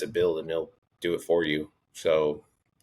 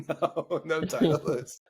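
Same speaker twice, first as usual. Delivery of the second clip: put-on echoing Japanese accent; 10 semitones higher, much slower than usual. Echoes the accented question, laughing.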